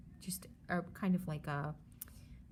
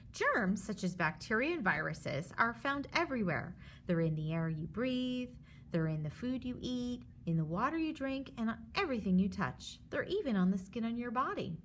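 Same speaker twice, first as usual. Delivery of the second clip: lively storybook read for a class; reading to children; 3 semitones higher than usual. Acted. Teacher reads the germs book aloud to her students. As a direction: read it like a picture book to kids.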